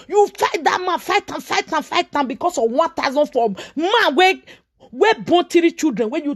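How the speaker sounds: high, heated repetition of fight; angry scolding. Real, not acted. Scolding the woman over one thousand four, angry. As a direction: hammer it at her with rising anger.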